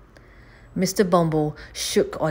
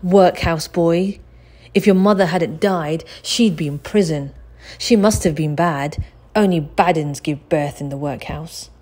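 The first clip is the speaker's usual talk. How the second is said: jeering bully; 6 dB louder than usual. Acted. Bully taunts Oliver.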